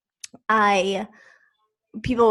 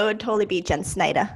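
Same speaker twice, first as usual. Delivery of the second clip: name said the Long Island way; Long Island accent; faster than usual. Shown as a demonstration. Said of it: "Say your name in the Long Island way".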